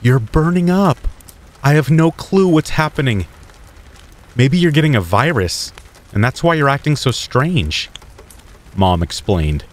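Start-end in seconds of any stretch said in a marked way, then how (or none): 0.0-7.9 mother's voice pitched much higher, alarmed; a worried mom feeling a feverish forehead; shocked mom. A narrator's reading. Mother finds her son burning with fever, alarmed and higher. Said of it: "and she was shocked".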